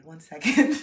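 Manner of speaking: loud call out. Real, not acted. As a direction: shout it across the room. Excusing herself loudly.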